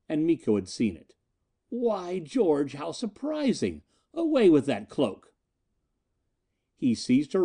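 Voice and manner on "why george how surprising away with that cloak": higher, taunting then barking; taunt, then order sharply; mocking command. Miko mocks then orders.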